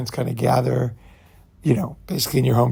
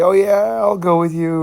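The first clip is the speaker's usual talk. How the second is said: higher-pitched, insincere agreement; lightly mocked sweet-talk, pitched up; placating girlfriend; 6 semitones higher than usual. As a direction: imitate a woman glibly going along with it. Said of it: "they'll talk like that".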